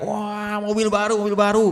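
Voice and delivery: high, held-out joyful yell; excited cry. Acted. Graduating son crows about his promised car, excited high cry. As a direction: cheer it out, pitched well up. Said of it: "dia teriak".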